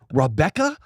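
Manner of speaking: high, drawn-out disbelief; mock-offended character voice, climbing high; indignant character. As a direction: slowly demand it in a put-on, affronted voice. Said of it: "What the fuck is this character you're doing?".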